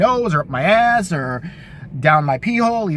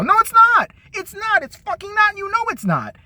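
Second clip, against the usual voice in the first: emphatic denial; 12 semitones higher than usual. Real, not acted. Comic rant insisting.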